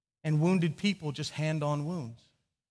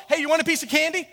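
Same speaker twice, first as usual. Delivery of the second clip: mock sweet offer; 10 semitones higher, 5 dB louder, faster than usual. Father offering candy to stop crying.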